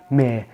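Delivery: "ما" with the final R dropped; British-style "ما", ending on an open vowel; British pronunciation. Shown as a demonstration. Teacher repeating the British word for viewers, British "ما". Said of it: "يبقى عند البريتش".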